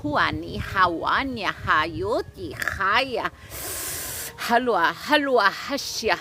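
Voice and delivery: rhythmic chanted syllables with sharp breathy ha's; light language channeling. Acted. Healer channeling light language for livestream viewers, chanted. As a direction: intone it like channeling spirit words.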